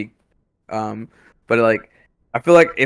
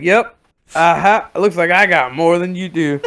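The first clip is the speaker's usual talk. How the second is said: higher, cocky gloating with a smirk; mock a self-satisfied winner; smug smirk; 5 semitones higher than usual. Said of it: "He smirks like".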